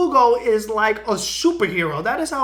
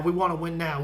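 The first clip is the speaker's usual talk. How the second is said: lower, softer repeat of the boast; mock Brody echo; 6 semitones lower, 4 dB quieter than usual. A fan repeats Brody's promise mockingly, lower and softer. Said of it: "Why would Brody say".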